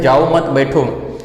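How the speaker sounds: slow "जाओ मत", then "बैठो"; slowly, keeping मत attached to जाओ; pause after मत. Shown as a demonstration. Teacher quotes someone telling you, pause after मत. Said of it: "अगर आपको कोई कहता है".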